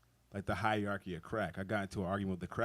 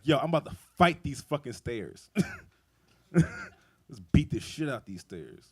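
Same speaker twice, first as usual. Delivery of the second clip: louder, laughing, slowed down; laughing mock threat; 5 semitones higher, 6 dB louder, slower than usual. Drunk friends vowing revenge on the stairs, laughing mock threat. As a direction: ham up a drunk vow through laughter.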